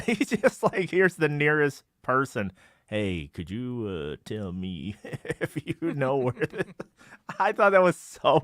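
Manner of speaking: amused, breaking into laughter; laughing at how ridiculous it is; laughing while retelling. Real, not acted. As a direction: tell it through bubbling laughter. Cracking up retelling a ridiculous scene.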